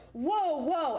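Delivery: mock alarmed calling out. Retelling owner reacting to dog attack.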